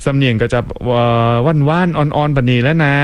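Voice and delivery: light Southern Thai dialect, gently; soft Southern Thai accent. Shown as a demonstration. DJ demonstrating his Pattani-Phatthalung accent, soft Southern Thai.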